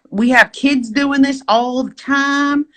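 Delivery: high-pitched mock guide reassurance; put-on trail-guide voice; imitated guide. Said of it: "the guy's like".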